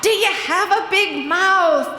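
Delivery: high, loud over blaring music; Johnny's question. Retold or imitated. Johnny calling to the narrator over blaring music, high and loud. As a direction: call it out over the loud party. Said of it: "And he said".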